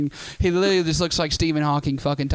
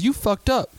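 higher-pitched mock scolding; agitated, raised-pitch accusation; accusing driver; 7 semitones higher, slower than usual. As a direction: imitate the driver laying blame. Angry driver blaming the puker.

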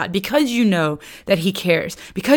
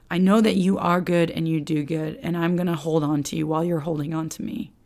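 softer, gentle words of trust; quiet trusting prayer; 3 semitones lower, 6 dB quieter than usual. Acted. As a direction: pray it softly, leaning in. Voicing a lament prayer.

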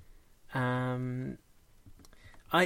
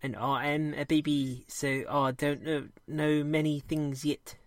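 put-on baby rat voice. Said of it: "Bobbit sounds like this".

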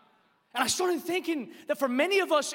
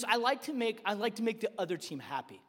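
imitating a sheepish child; meek child's confession; 2 semitones lower, 6 dB quieter, faster than usual. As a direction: own up quietly, trailing downward. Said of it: "And he goes".

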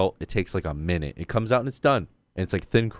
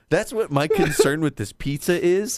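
laughing; 5 semitones higher than usual. Retold or imitated. Own quote, laughing.

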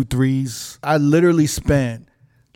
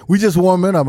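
raised imitation of a familiar DJ; Never; 4 semitones higher, 4 dB louder than usual. Recognising a DJ by his voice, imitation. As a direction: do the DJ's recognisable catchphrase voice. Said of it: "if I hear that voice".

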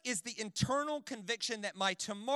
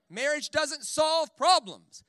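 slow emphasis; 7 semitones higher, 9 dB louder, much slower than usual. Acted. Preacher stresses point.

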